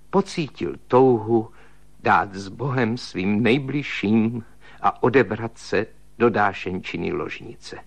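ordinary delivery, nothing marked

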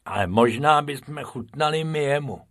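lightly voiced rabbit thinking aloud; Bob's voice. Bob musing at the lion cage, lightly voiced.

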